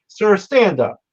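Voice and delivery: put-on high, commanding Alabama accent; imitated Southern judge. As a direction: order him up like a Southern judge. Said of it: "spoke like he was twelve Southerners from Alabama".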